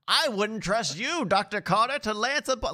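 lightly acted doctor quote; hint of an impression, pitched a little up; attempted impression. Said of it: "is that your impression?".

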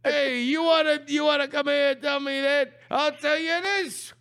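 brash, hammed-up street taunts with shouts; Italian tough guy bit. Taunting the coach in a hammed-up Italian tough-guy voice. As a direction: needle him like a mouthy wiseguy. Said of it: "did that whole improv bit".

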